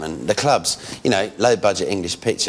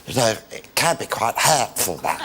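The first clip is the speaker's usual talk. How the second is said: hurt Leon Britton. Retold or imitated. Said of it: "he was all a bit hurt ... He went".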